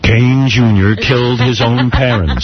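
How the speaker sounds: lightly voiced campaign announcer, deadly serious; mock attack-ad announcer. Comic making up a smear ad, announcer voice. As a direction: parody a grave political ad voiceover. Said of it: "it's always a deep voice announcer".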